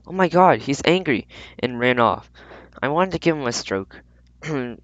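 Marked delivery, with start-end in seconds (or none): 0.1-1.3 high squeal of mock alarm; shrieked. Girls shrieking at the angry cat as they run. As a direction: shriek it, half scared half thrilled. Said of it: "shrieked again".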